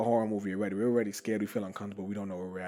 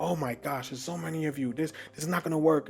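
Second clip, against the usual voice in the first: higher-pitched flustered host; lightly hammed-up dismay; mild mock fluster; 6 semitones higher than usual. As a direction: imitate a host overwhelmed by too many guests. Voices the guy panicking at guests.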